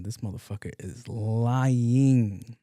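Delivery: slow, stretched-out judgement; drawn-out verdict. Acted. Doctor writing notes on a patient, slow drawn-out verdict. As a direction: draw it out as you write them off.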